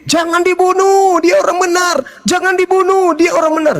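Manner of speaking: high, sustained protest cry; crowd shouting. Acted. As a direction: call out like a pleading crowd. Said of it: "Orang Islam ikutin". (seruan massa bernada tinggi)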